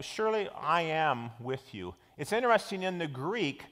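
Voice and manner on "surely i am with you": "I am" set apart and leaned on; stress on I. Shown as a demonstration. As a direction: lean firmly on the I in "I am". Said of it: "it puts different emphasis on it".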